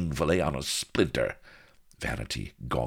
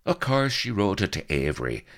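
higher, exasperated retort; snarling; 6 semitones higher, 3 dB louder than usual. A narrator's reading. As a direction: confirm it with irritation. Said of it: "snarled Blood".

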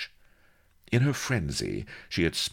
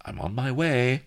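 obedient; 8 semitones higher, 3 dB louder than usual. A narrator's reading. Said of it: "said Prizzitlin obediently".

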